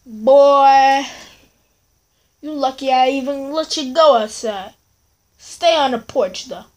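put-on loud bark of Boy, then scolding; strict parent denying a request; stern black parent. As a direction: shut the kid down firmly.

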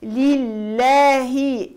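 لله with a thin, light lam. Shown as a demonstration. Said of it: "اللام مرققة".

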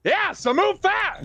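slow, high-pitched yell. Acted. Player tells the crew to move the ship, yelling. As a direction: yell each word, drawn out. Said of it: "sorry, I'm yelling".

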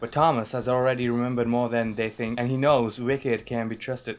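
hesitant American read-aloud; shoddy American accent. Shown as a demonstration. Reading a book blurb aloud to show off, shoddy American accent. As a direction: attempt an American accent, imperfectly. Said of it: "shoddy American accent".

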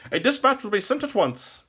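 high, loud, prompt courtier; courtly minstrel chancellor. A narrator's reading. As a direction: assure the king in ringing tones. Courtly minstrel answers king.

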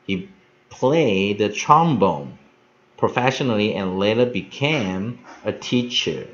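slow English read-aloud in deliberate phrases; careful model reading. Shown as a demonstration. Teacher leads the last practice of the text, careful model reading. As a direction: read it out slowly for learners, phrase by phrase.

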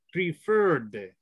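Preferred said as a careful teaching model; pronunciation model. Shown as a demonstration. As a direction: model "Preferred" as a clear example for learners. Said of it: "that's the correct way to pronounce".

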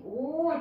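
オー as one drawn-out rounded "oh"; long O sound. Shown as a demonstration. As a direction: sound out オー as a vowel example. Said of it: "オーっていう音に変わるんですね".

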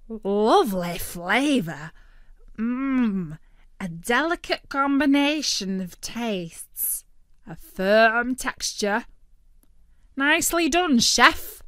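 brash turkey voice. A narrator's reading. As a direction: argue like a greedy cartoon bird. Turkey praises.

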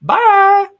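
high, bright cartoon cat; squeaky cartoon character sign-off. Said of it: "Emmy award-winning stuff there".

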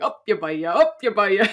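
put-on march and chant it like a small Clare child; childish Clare accent. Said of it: "in my best Clare accent".

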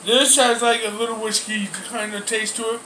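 pausing mid-meal to speak; casual table talk while eating; talking between bites. Real, not acted. Seen 3: Holds fork over bowl, talks; no bite taken during words.

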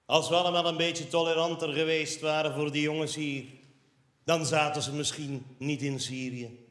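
a hint of a smug opinion writer; lightly voiced preachy columnist; mock columnist. Quoting a smug columnist, mildly mocking. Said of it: "En hij zegt".

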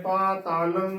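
ਪਾ ਤਾਲੰ with the first aa held in full; both vowels long in ਪਾ ਤਾਲੰ; correct pronunciation. Shown as a demonstration. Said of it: "ਪੂਰਾ ਹੀ ਉਚਾਰਨ".

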